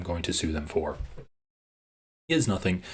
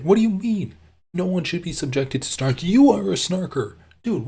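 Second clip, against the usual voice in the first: much higher and louder, ranting in disbelief; furious yelling; 7 semitones higher, 3 dB louder than usual. Real, not acted. Streamer raging at a rival's hypocrisy, yelling. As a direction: explode at the hypocrisy, voice cracking up high.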